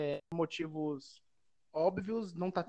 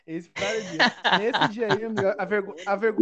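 emphatic; 8 dB louder than usual. Real, not acted. Emphatic retelling of shame.

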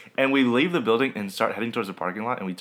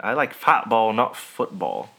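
lightly British "football"; British accent. Shown as a demonstration. Friend joking about liking soccer, mock British accent. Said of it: "'Cause, like, British accent".

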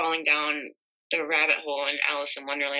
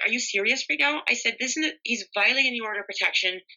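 higher-pitched incredulous challenge; retold indignation; 5 semitones higher, faster than usual. Victim retelling how she challenged the police supervisor, indignant and high. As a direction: retell a protest in rising disbelief, pitched up.

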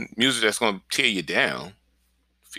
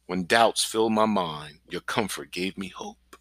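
slow and softer, sinking into meditation; softer slow recitation; 5 semitones lower, slower than usual. Shown as a demonstration. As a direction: breathe the verse out softly and slowly. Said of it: "Pronounce the word clearly and slowly".

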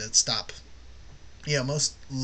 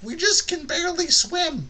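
very high, louder put-on voice; mock-pathetic high-pitched complaint; whiny yahoos; 6 dB louder than usual. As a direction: squeak it like a hapless non-swimmer. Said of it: "your other yahoos who are like".

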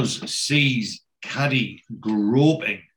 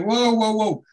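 high, startled whoas as a fight breaks out; rising alarm, much higher; 10 semitones higher, 4 dB louder than usual. Retold or imitated. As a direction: cry out as the scuffle kicks off.

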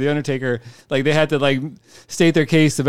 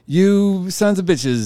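lightly voiced monarch, higher and drawn out; Queen of England; 5 semitones higher, much slower than usual. Queen scolding the crowd from a Jumbotron, slow mock-regal delivery. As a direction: stretch the insult out slowly. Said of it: "the Queen of England is like".

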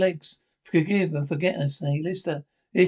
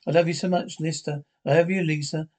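fake lover's voice. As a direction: coo it like a doting girlfriend. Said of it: "Change the voice".

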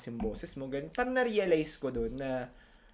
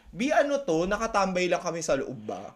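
mock irritated teacher.

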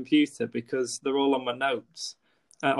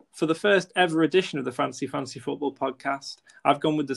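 scripted intro read. Acted.

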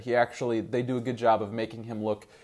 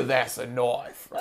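laughing echo; slower than usual. Retold or imitated. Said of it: "just Crocodile Dundee".

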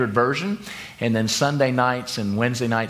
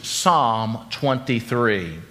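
trained British reciting voice; 3 semitones lower, much slower than usual. Retold or imitated. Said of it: "he recited in his beautifully trained voice".

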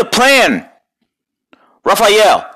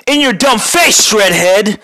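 taunting turtle; 8 semitones higher, slower than usual. Acted. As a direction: crow it up high at the villain. Taunting villain, first take.

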